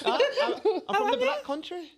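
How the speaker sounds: high-pitched try at a Black Country accent; Black Country accent attempt. Shown as a demonstration. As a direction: have a go at sounding Brummie. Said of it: "that's a bit better".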